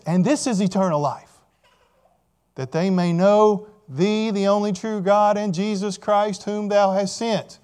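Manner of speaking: preacher quoting scripture, unhurried; scripture reading. Acted. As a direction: recite the verse with deliberate weight. Reads scripture aloud to congregation.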